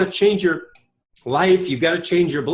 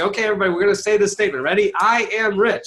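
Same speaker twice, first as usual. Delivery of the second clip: seminar leader rallying; 3 semitones higher, faster than usual. Retold or imitated. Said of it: "I say".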